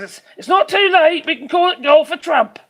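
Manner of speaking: mock president. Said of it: "And he says".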